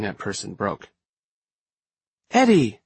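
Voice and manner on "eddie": high, loud, delighted cry of greeting; excited exclamation. A narrator's reading. Sydney spots Eddie arriving, excited exclamation. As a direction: exclaim it, pitched way up. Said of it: "Sydney exclaimed".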